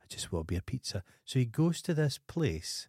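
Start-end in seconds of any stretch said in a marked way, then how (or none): 0.0-1.0 softer and fast, a hint of a whiny husband; mock pleading. Husband in the pizza ad, lightly voiced and soft. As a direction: mumble it quickly, half-hearted.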